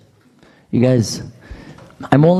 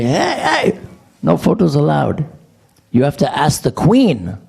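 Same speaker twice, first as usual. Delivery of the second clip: high mock yell; retold yelling guard; 4 semitones higher than usual. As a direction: shout it like an angry temple guard. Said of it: "some guy starts yelling at me".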